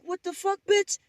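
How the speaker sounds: very high, incredulous squeak; husband's disbelief. Retold or imitated. Lost husband reacting to his wife, high incredulous squeak. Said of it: "He's like".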